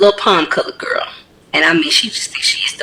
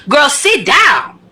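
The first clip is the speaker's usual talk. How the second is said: firm command; 8 semitones higher, much slower than usual. Real, not acted.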